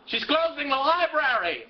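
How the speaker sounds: high-pitched dramatic reveal; mock-horrified announcement; alarmed outburst. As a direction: blurt it out as dreadful news. Dreaded reveal about Mary.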